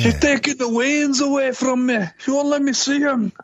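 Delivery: fake Indian accent. Co-host teases with a mocking fake Indian accent. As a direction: put on a jokey Indian accent, high. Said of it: "Don't do that fake Indian accent".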